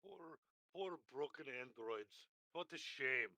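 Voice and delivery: soft, slow mock sympathy; mock pity. Player mourning the broken androids, mock pity. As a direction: coo with hushed, slow false sorrow.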